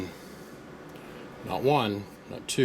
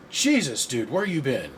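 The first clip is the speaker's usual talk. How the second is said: surprised; 3 semitones higher, slower than usual. Retold or imitated. Greeting a customer who vanished for years, surprised. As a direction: retell the shock of hearing from him after years.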